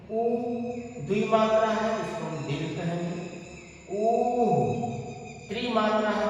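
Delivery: ऊ held short, then longer, then longest; vowel lengths shown. Shown as a demonstration. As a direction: stretch each ऊ to its length. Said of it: "ऊ एक मात्रा है".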